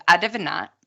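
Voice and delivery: imitating Geordie kids, "I div not"; quick Geordie dialect imitation; Geordie accent. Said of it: "in, like, a Geordie accent".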